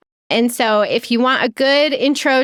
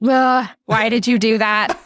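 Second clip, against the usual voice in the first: exasperated groan. Retold or imitated. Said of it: "where it's just like".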